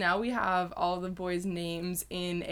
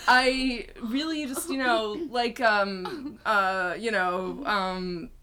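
hammed-up Irish lad voice, loud and high; mock Irish lad accent; 4 semitones higher, 4 dB louder than usual. Playing a boyband singer answering a fan question, hammed-up Irish accent. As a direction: play a cheery Irish boyband lad. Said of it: "an American accent now".

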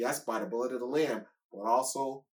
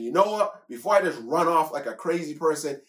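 donkey thinking aloud; 5 semitones higher, 4 dB louder than usual. Acted. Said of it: "That is a donkey saying".

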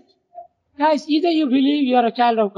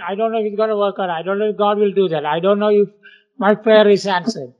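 fast, lower mock doubter; doubting garbage talk; 3 semitones lower, faster than usual. Preacher mocking the doubtful talk he warns against, fast mock doubt. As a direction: rattle off the doubts like a worrier. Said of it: "Don't talk garbage".

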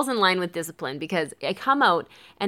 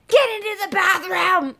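angry order; 11 semitones higher, 3 dB louder than usual. Retold or imitated. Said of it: "And then I said".

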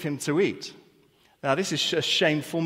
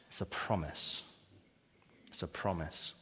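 hushed affirmation; 8 semitones lower, 13 dB quieter than usual. Real, not acted. Quiet emphatic repetition.

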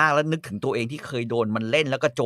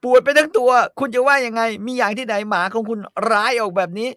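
whiny refusal; 9 semitones higher, 5 dB louder than usual. Acted. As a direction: whine like a spoiled lady. Pen complaining to master.

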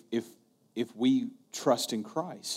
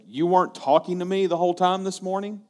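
astonished question; 7 semitones higher, 4 dB louder than usual. Retold or imitated. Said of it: "he's like".

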